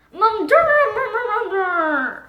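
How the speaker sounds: put-on high, babyish garbled words; a small child struggling to speak; hushed little toddler voice; toddler talk.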